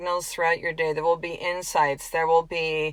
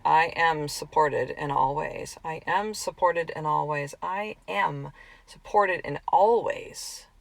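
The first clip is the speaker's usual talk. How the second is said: quiet desperate prayer; 2 semitones lower, 4 dB quieter, slower than usual. Retold or imitated. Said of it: "come to Jesus moments".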